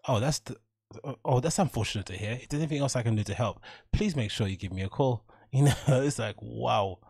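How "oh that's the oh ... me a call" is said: mock polite cashier, unbothered; smooth it over like a scripted clerk; lightly hammed-up customer service calm; nonchalant service voice. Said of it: "You're like".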